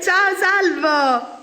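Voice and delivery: laughing. Real, not acted. Laughing greeting to chat.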